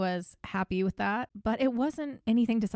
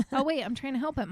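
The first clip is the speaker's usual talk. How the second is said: higher, quick mock-helpful friend; high-pitched, rushed comic backpedal; backtracking friend; 7 semitones higher, faster than usual. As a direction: imitate a friend hastily correcting himself. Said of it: "his friends essentially came in and were like".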